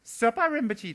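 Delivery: high, loud call across the grounds; high excited holler; child's shout. Retold or imitated. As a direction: yell it like a toddler calling a grown-up. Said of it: "he screamed at the".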